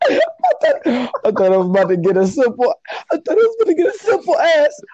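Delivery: high-pitched, talking through laughter; laughing disbelief. Real, not acted. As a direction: crack up while getting the words out. Cracking up at unexpected answer.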